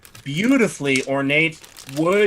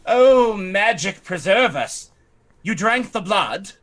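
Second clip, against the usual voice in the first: slow, louder, higher gasp of dismay; shocked noblewoman; 5 semitones higher, 4 dB louder, slower than usual. Acted. Lady dismayed by the vampire's confession, slow and shocked. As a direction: clutch your pearls, slowly. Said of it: "she says".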